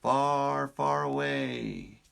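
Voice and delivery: slow, dreamy storybook far away; storybook phrase. Shown as a demonstration. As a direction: stretch it like a fairy tale. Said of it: "someone in the world is saying".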